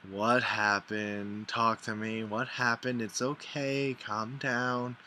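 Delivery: unhurried, soothing, slow on the first question; calming friend. Retold or imitated. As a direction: imitate a friend talking someone down. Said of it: "hysterically crying, and she's like".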